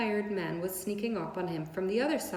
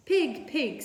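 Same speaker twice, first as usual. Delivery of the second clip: kind voice; 6 semitones higher, 4 dB louder than usual. A narrator's reading. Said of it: "in a kind voice".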